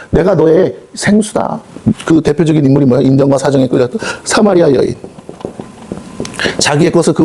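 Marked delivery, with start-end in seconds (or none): 0.1-1.6 solemn Lord's voice. Acted. Voicing the Lord.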